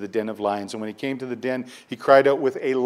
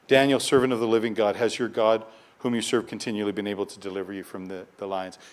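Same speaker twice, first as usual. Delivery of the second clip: voice of grief. Retold or imitated. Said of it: "with grief in his voice".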